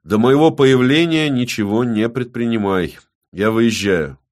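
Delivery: loud, decisive order; firm. A narrator's reading. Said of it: "твёрдо закончил".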